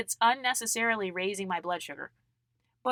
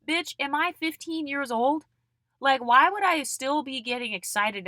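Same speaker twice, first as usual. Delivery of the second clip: higher-pitched incredulous question; indignant retort; 5 semitones higher than usual. Acted. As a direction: throw it back, incredulous and high. Indignant retort to imagined critics.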